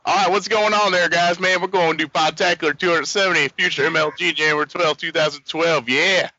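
a hint of a folksy NASCAR driver hyping the show; Dale Junior impression. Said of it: "here's my Dale Junior impression".

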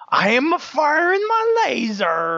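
high, slow drawn-out yell; yelled battle cry. Retold or imitated. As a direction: belt it out like charging a weapon. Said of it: "I yelled at the top of my lungs".

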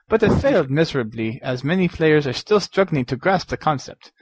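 a light, hammed-up Transylvanian vampire accent reading a letter; a British accent attempt sliding into Count Dracula. Podcast host reads a listener's letter in a mock Dracula accent. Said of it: "I'm turning into Count Dracula".

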